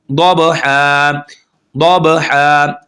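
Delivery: दबहा very slow, बा bounced; slow tajweed recitation; qalqalah. Shown as a demonstration. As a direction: echo the ब with qalqalah. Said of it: "कलकला करेंगे".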